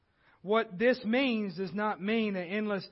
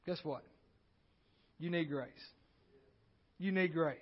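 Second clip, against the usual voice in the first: quiet, intimate emphasis; sudden hush; 4 semitones lower, 9 dB quieter than usual. Acted. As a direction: drop low and soft for effect. Sudden soft drop after build.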